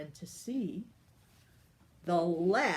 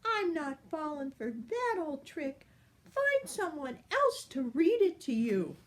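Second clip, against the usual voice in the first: higher, sassy fairy voice; cheeky fairy; 8 semitones higher than usual. Acted. The fairy refuses to read for the giant, high and sassy. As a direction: brush him off like a naughty fairy. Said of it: "said the fairy".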